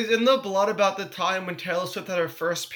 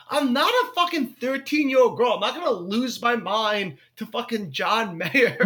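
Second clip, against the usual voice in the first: mock indignation; 2 semitones higher than usual. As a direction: refuse it with comic scorn. Acting out his indignant inner refusal.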